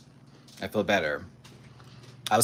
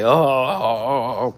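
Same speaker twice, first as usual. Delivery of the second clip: voicing the cat; 8 dB louder, slower than usual. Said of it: "she's like".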